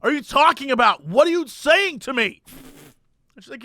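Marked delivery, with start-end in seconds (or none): 0.0-2.4 indignant, raised customer voice; exasperated mock outburst; mock shouting. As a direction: imitate an angry man berating a clerk. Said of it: "just by shouting at people".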